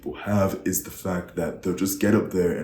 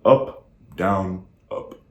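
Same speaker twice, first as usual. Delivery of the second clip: up-down pattern; 3 dB louder, much slower than usual. Shown as a demonstration. Coach demonstrating repetitive delivery, up-down pattern. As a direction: voice following "up, down, up". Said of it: "in the way that they have their voice sounding".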